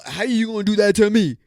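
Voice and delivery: mock whiny complaint. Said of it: "the girls that talk like this".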